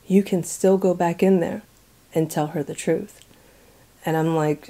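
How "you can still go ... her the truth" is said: softer, gentle urging; sweet, gentle voice. Retold or imitated. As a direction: coax kindly, almost tenderly. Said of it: "so sweetly again, he says".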